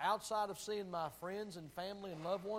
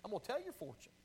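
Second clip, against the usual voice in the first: fortune teller; 4 semitones higher, faster than usual. Pretend. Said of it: "I'm gonna be a fortune teller".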